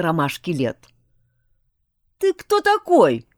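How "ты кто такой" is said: a stern, higher challenge to the stranger; menacing question. A narrator's reading. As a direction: demand it threateningly, louder. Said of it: "грозно спросил мой защитник".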